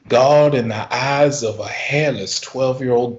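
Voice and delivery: lightly voiced Southern preacher; a hint of pulpit solemnity. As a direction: testify with mock reverence. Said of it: "who is a Southern preacher".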